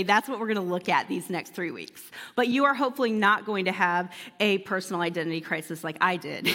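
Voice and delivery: usual speaking voice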